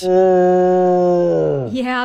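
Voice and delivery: loud drawn-out Sasquatch call; bigfoot grunting. Pretend. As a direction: bellow like a bigfoot. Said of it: "You just have to do the Sasquatch call".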